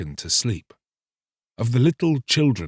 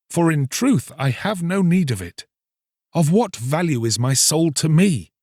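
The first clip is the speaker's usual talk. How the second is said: raised, earnest plea; young fisherman pleading; 6 semitones higher than usual. Acted. Fisherman pleads with the priest, raised and earnest. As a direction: beg the priest for help.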